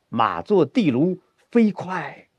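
slow line, 地卢 and 飞快 drawn out; galloping stretch. Shown as a demonstration. Teacher models horse line for student, drawn-out gallop. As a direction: stretch 飞快 as if riding on. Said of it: "跑一会儿".

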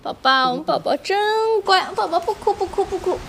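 high, lilting coo; soothing baby talk. Acted. Mother calming baby in her arms, soothing coo.

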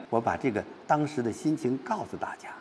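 soft, near-whispered confiding; subdued telling. Shown as a demonstration. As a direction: confide it quietly, almost without voice. Teacher voices poet's subdued mood.

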